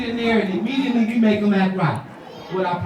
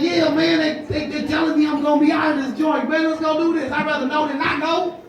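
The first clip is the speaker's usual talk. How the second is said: laughing urgent plea; 7 semitones higher than usual. Retold or imitated. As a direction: push through the bad news with a laugh. Tells friend of diagnosis.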